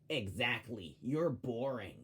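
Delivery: lightly voiced Monty, the wrong take; a barely changed impression of Monty. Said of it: "well, I did the wrong voice".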